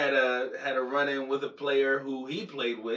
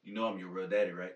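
low, quiet menacing taunt; taunting whisper; 8 semitones lower, 7 dB quieter, much faster than usual. Pretend. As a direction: murmur it close to his ear. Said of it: "I'm gonna be in your ear like".

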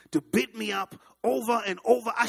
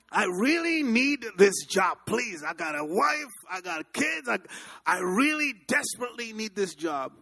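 pleading; 4 semitones higher than usual. Retold or imitated. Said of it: "I begged".

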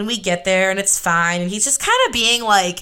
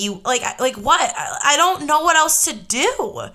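heated retort; 5 semitones higher than usual. Retold or imitated. Her heated retort in the argument.

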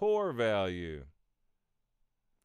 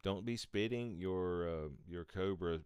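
mock intervention voice; 9 semitones lower, 5 dB quieter than usual. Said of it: "they had an intervention".

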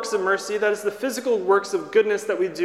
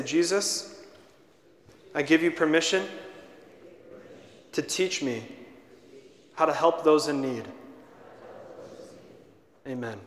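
prayer in short phrases with long pauses; measured, low-pitched prayer for others to repeat; led prayer; 5 semitones lower, 6 dB quieter than usual. Real, not acted. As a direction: lead a simple prayer, phrase by phrase. Leads children in a prayer.

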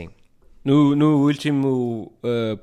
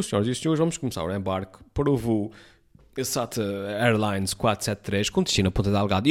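airport announcement. Retold or imitated. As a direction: imitate a flight gate announcer. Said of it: "é sempre tipo".

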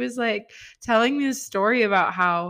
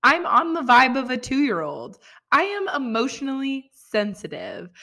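higher and louder, emphatic; excited gush; 7 semitones higher, 4 dB louder than usual. Real, not acted. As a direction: throw yourself into it with excitement. Gushing about sharing toddler's feelings.

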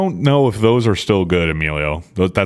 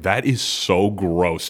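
disgusted; 3 semitones lower, 4 dB quieter, much slower than usual. Retold or imitated. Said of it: "I was like".

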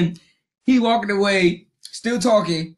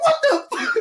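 mock shock; faster than usual. His own shock retold.

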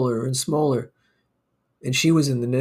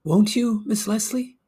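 much higher, rising plea on Leslie; pleading question; 8 semitones higher than usual. Acted. Broker begging his secretary for a yes, high pleading rise. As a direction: ask high and hopeful, pleading.

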